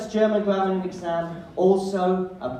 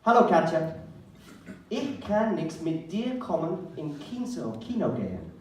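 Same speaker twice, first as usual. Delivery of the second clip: reading his bad German text. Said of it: "here is my S M S".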